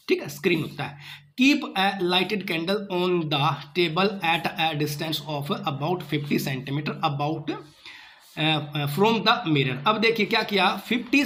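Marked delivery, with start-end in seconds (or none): 1.4-9.8 very slow, word by word reading aloud; slow textbook reading. Acted. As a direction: read each word out slowly for the class. Reads the textbook aloud slowly. (धीमे-धीमे किताब से पढ़ना)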